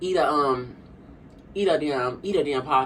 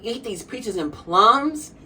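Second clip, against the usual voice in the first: reluctant quote; 5 semitones higher, much slower than usual. Retold or imitated. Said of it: "she said".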